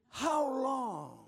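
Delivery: loud, high, drawn-out plea; crying out to God. Acted. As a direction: wail the question at heaven to wake the room. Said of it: "asking God this question".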